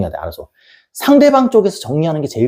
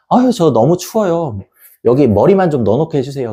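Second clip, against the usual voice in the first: pleading camel; 2 semitones higher than usual. Pretend. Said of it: "당나귀가 이렇게 있는데".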